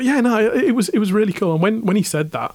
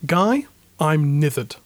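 slow, broad Hull accent; slower than usual. Shown as a demonstration. Asked for a hometown impression, slow broad Hull accent. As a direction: lay on the Hull accent, slowly. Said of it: "Can you do an impression for us?".

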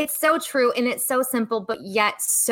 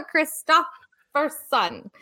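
laughing through Christopherson, slow, Jersey-style; imitating Jersey accent; 5 semitones higher, slower than usual. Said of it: "I say it with my Jersey accent".

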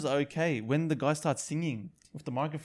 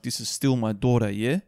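stern dad; 4 dB louder than usual. Retold or imitated. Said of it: "he was like".

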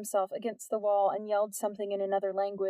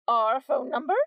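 louder and higher, rising in outrage; outraged question; 4 semitones higher, 7 dB louder than usual. A narrator's reading. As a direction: fire it back like an offended mother. Mother glared, outraged.

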